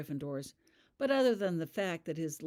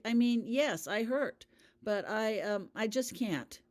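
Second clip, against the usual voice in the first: distressed; 6 semitones higher, 4 dB louder, slower than usual. A narrator's reading. Holly distressed.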